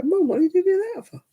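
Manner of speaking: exasperated. Retold or imitated. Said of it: "you're like".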